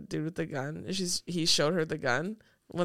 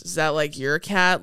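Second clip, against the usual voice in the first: monotone; 3 semitones lower, 4 dB louder than usual. Retold or imitated. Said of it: "his just completely monotone disposition".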